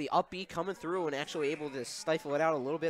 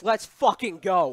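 hype cheer; 5 dB louder, slower than usual. Real, not acted. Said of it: "I'm gonna say a curse".

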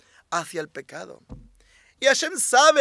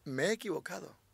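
humble prayer; 6 dB quieter than usual. Shown as a demonstration. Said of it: "Y dile".

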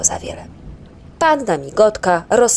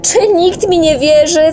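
loud, much higher, slow cry; outburst; 11 semitones higher, 8 dB louder than usual. Acted. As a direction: burst out in frustration. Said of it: "wybuchnął Muminek".

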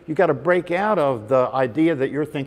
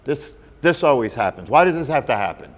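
louder, quicker mock exasperation; exasperated complaint; 6 dB louder than usual. Teacher acting out a student's annoyed self-talk, louder and hurried. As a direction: grumble it like a fed-up person whose day went wrong. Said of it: "some more statements like".

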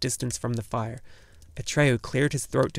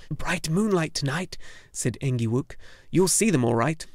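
pompous little gnome; 4 semitones higher than usual. Acted. Engiwook speaks.

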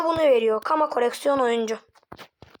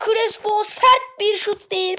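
excited; 6 semitones higher, 4 dB louder, slower than usual. Acted. Shot on goal in commentary.

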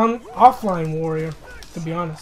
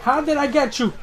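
raised, lively disbelief; amazed question; 5 semitones higher, 4 dB louder than usual. Real, not acted. Gamer asking the opponent how he landed it, amazed. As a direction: ask it half-laughing in wonder. Wonders at lucky hit.

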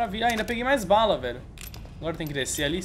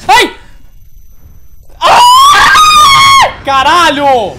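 real terrified shriek; startled scream; 18 dB louder, much slower than usual. Real, not acted. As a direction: screams in fright at a jump scare. Jump scare in horror game.

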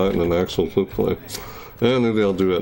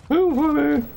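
much higher, squealed through laughter; high laughing repeat. Real, not acted. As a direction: crack up on "Too". Repeating after plain take.

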